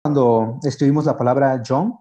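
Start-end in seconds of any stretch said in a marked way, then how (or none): 1.7-1.9 "John" con consonante inicial suave y sonora; sonido suave CHH. Shown as a demonstration. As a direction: pronunciar "John" con una j inglesa. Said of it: "Su sonido es similar al de la J". ("John" con sonido suave y sonoro, como en zapoteco)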